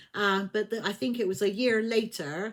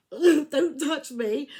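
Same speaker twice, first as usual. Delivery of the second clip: slow, loud, higher laugh-cry of don't touch me; laughing protest; 6 semitones higher, 7 dB louder, much slower than usual. Retold or imitated. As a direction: protest while cracking up. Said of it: "Claire was like".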